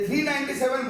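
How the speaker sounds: "नाइंटी सेवन" as a single two-digit number; grouped-number reading. Shown as a demonstration. Teacher warning students off this reading, "नाइंटी सेवन" grouped as one number. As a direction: lump the final digits together as "नाइंटी सेवन". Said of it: "बोल देंगे तो अलग हो जाता है".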